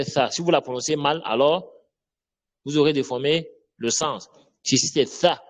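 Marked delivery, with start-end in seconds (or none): 5.1-5.4 "ça" with an unvoiced th; tongue between teeth. Shown as a demonstration. Teacher warning about mispronouncing the letter, lisped th in "ça". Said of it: "on met la langue entre les dents".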